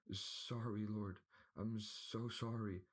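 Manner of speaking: high, slow, cowering lisp; lisping stuttering servant. A narrator's reading. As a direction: grovel with a stammer and lisp. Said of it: "a lisping and stuttering man said".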